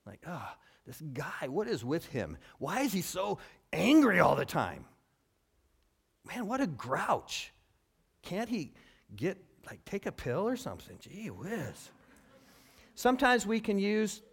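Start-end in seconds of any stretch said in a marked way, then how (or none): 0.3-11.9 mildly hammed-up coworker complaint; exasperated grumbling. Preacher voicing a worker fed up with an angry colleague, mildly exasperated.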